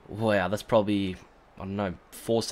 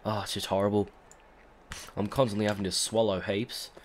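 hoarse smoker voice; raspy from a cold; sounding like a smoker. Real, not acted. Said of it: "I bloody sound like a smoker".

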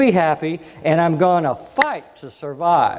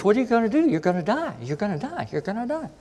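angry doctor; 6 semitones higher, 4 dB quieter, faster than usual. Retold or imitated. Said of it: "she got so mad at me".

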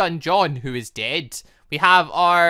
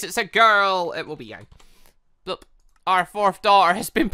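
usual speaking voice

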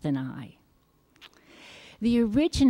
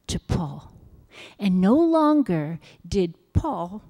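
deliberate storyteller reading with punched key words; children's Bible storytelling. Acted. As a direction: read a Bible story to children, with long pauses.

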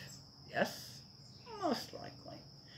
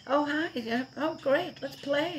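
much higher, eager puppy voice; voicing the puppy; 12 semitones higher, 3 dB louder than usual. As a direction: speak as a dog begging to play. Dog's feelings voiced playfully.

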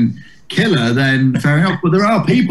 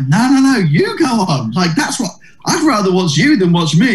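a bit higher insisting no; mock protest; 6 semitones higher than usual. Ben insisting Eddie go on, mildly higher protest. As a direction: wave it off, pitched up. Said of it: "And Ben was like".

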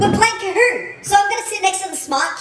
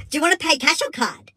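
drive-through worker; 2 semitones lower, faster than usual. Acted. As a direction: play a bored fast-food worker. Worker asks payment.

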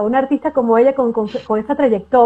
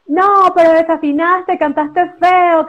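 mocking critics; 4 semitones higher, slower than usual. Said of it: "te critica y te dice".

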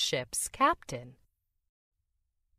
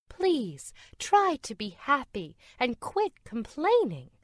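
coaxing; 7 semitones higher than usual. A narrator's reading. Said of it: "coaxed Calypso".

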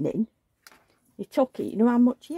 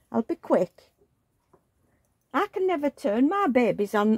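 put-on baby talk; 3 semitones higher than usual. Talking to the doll.

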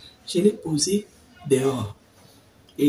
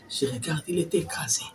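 softer, whispered discovery; hushed dismay; 7 dB quieter than usual. Retold or imitated. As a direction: whisper it as you see the crushed lizard. Découvre le lézard écrasé. (chuchoté, consterné)

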